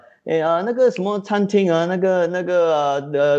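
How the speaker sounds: searching for the word with 那个 fillers, slowing down; Chinese filler hesitation. Shown as a demonstration. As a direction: stall with 那个 while trying to remember. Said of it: "in Chinese, I'd say".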